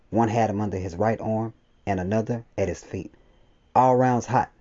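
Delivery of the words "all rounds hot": raised, louder and higher battle order; shouted command. A narrator's reading. Leader ordering squad to fire on creatures, shouted. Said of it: "I shouted".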